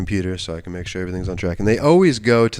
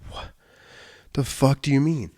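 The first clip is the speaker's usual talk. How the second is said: disbelief; 6 semitones higher than usual. Retold or imitated. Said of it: "And I'm like".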